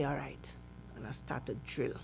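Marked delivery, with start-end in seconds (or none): 0.0-0.6 whispered. Retold or imitated. Whispered reply in cell.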